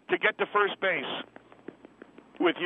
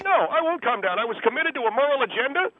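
agitated, higher-pitched self-righteous protest; angry; 3 semitones higher than usual. Acted. Guest defends his morals to host and woman, angry. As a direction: refuse to calm down, arguing heatedly. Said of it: "if you're so angry about it".

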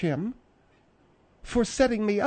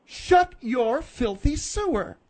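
slow, withering order; stern command; 2 semitones higher, slower than usual. Acted. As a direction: silence him with drawn-out words. Domineering woman silences cowed man.

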